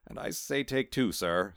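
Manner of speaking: pleading cat bargaining; urgent. Acted. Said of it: "said Maurice urgently".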